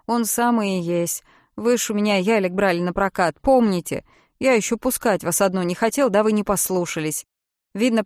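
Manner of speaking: talkative rescuer, glad she's alive; relieved boatman Jim. Acted. Jim voiced by the narrator. (Джим, громко и с облегчением)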